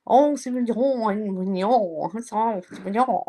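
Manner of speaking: lilting mock half-Japanese, half-French accent. Streamer voicing Dee Dee reassuring the guys, half-French, half-Japanese accent. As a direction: put on a mixed French-Japanese accent, swooping up. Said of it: "Dee Dee is saying".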